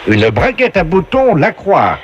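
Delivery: slow, booming quiz-show host; game show announcer voice. Acted. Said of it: "la voix du jeu".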